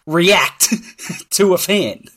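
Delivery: high, loud, amazed and laughing; high-pitched amazement broken by laughter; laughing disbelief. Real, not acted. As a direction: laugh through it, incredulous and emphatic. Laughing in amazement at the player's reaction.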